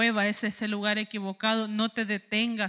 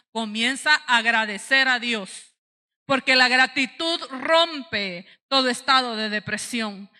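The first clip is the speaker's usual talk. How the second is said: louder, driving pulpit delivery; emphatic preaching; 3 semitones higher, 6 dB louder than usual. Real, not acted. Preacher urging the church toward gratitude, emphatic preaching. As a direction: press each phrase home to the congregation.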